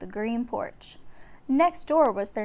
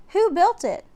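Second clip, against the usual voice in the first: put-on curious boy; 8 semitones higher, 5 dB louder than usual. A narrator's reading. Jack asks curious.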